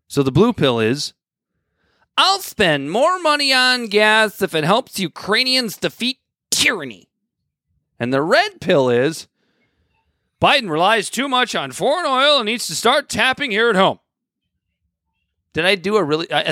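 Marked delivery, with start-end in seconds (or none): 2.2-7.1 lightly voiced earnest liberal, high and slow; a hint of a preachy progressive; slow, high, earnest mock of the blue side; imitating a liberal. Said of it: "did I do a good job of imitating those two". 10.4-14.0 imitating a conservative. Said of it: "did I do a good job of imitating those two".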